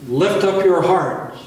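high, loud, slow call to the congregation. Real, not acted.

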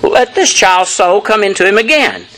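lifted voice, restrained plea; Elijah crying out. Retold or imitated. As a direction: read it as an earnest cry to God. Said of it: "and cried unto the Lord".

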